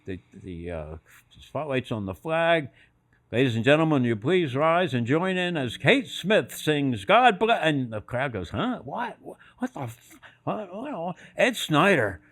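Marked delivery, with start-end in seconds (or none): 3.3-7.6 arena announcer. Retold or imitated. 8.5-11.1 high, confused "what?"s, fading to soft; baffled crowd. Retold or imitated.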